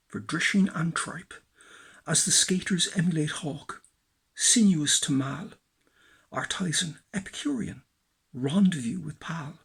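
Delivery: measured spoken-word poetry reading; list-like poetic delivery; poem recitation. Acted. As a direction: recite it phrase by phrase with pauses. Recites own poem, Markets.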